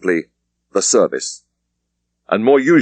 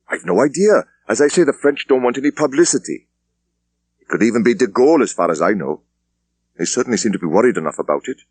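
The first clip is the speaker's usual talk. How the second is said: brisk senior officer, voice raised higher; a superintendent dismissing his junior; police superintendent; 4 semitones higher than usual. Acted. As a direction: wrap it up with brisk authority. Thomas replies.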